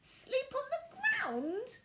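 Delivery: high, slow appalled question; horrified. A narrator's reading. Violet horrified at sleeping on the ground. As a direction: gasp it in horror. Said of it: "Violet was horrified".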